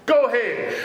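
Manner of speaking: offering encouragement and praise; encouraging go-ahead. Retold or imitated. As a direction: cheer them on. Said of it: "an offer of encouragement and praise".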